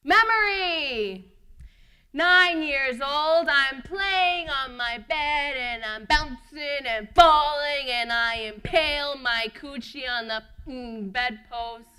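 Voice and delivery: loud, slow, drawn-out excitement; boisterous child storytelling. Acted. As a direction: belt it out with childlike gusto. Child acts out boisterous bed bouncing.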